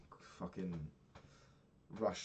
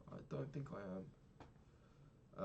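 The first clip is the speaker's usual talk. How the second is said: slow, soft whisper to yourself; whispered aside; 11 dB quieter, much slower than usual. Real, not acted. Muttering aside to self.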